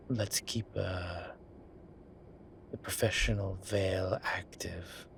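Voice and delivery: conspiratorial whisper. Acted. Conspiratorial aside.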